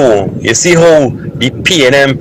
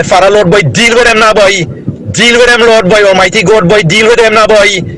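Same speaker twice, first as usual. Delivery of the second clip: raised-pitch, impassioned calling on the Lord; caller's fevered prayer against the government; fervent plea to God; 6 semitones higher than usual. Real, not acted. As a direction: cry out to God to deal with them.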